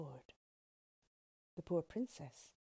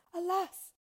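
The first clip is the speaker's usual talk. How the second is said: high, loud storybook lament; crying out; 12 semitones higher, 6 dB louder than usual. A narrator's reading. Princess hears her lover would die, high loud cry. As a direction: cry out in acted dismay. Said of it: "cried the princess".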